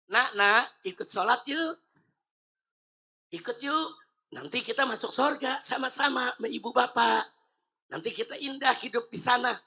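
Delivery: put-on soft, gentle coaxing of a small child. Parent gently inviting a five-year-old to pray, soft and coaxing. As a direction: coax the little one kindly to come pray. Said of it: "Kalau ngajak lembut".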